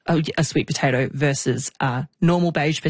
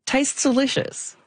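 savouring aside; 9 semitones higher, slower than usual. Real, not acted. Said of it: "this is me editorializing".

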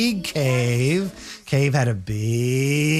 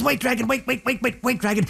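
put-on higher, pleading girl's voice; eager princess; 7 semitones higher, faster than usual. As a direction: beg the dragon to stop. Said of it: "But Liz says".

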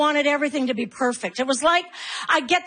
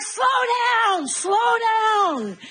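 mock soothing mom; 7 semitones higher, much slower than usual. Mom singsong at running kids.

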